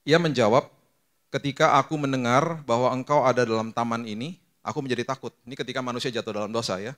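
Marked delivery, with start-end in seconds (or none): 0.0-5.3 scripture reading. Acted.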